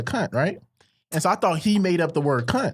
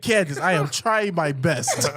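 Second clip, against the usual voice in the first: slow, weary mock mother; exasperated mom; slower than usual. Imitating tired mom pleading with daughter, slow. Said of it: "She said".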